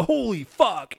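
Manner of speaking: high startled holy fuck; hammed-up shock; mock shocked exclamation. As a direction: imitate a jump-scare outburst. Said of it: "I'll go".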